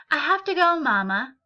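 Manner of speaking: put-on eager child trying to get out the door; eager boy.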